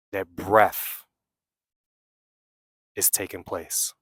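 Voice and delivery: unhurried meditation guide with long pauses; guided meditation. Real, not acted. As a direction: guide them inward, leaving long silences between phrases.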